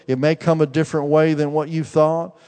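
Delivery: fervent preacher; preaching. Acted. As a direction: declare it over him with conviction. Preaching prophecy to Daniel.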